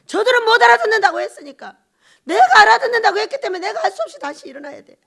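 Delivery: loud, high, insistent preaching; impassioned outcry. Real, not acted. Preacher tells congregation why he must rise, impassioned shout. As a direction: cry it out with urgency.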